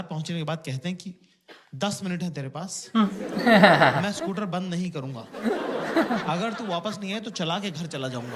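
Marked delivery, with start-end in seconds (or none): 1.7-8.4 impatient husband's threat, louder on the scooter line, slow; gruff dad. Retold or imitated. Father warns mother at the bazaar, gruff and impatient. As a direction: bark the deadline like a hurried dad.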